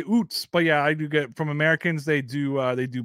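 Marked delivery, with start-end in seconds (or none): 0.0-0.5 "oots" with a rounded oo vowel, as the Canadian cliché for "outs"; the Canadian cliché "oots" with a long oo; stereotype Canadian accent. Retold or imitated. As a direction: say "oots" like a movie Canadian, lightly mocked. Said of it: "People always think Canadians say oots".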